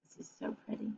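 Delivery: soft awed whisper. Real, not acted. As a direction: breathe it out in wonder. Aside while showing pictures.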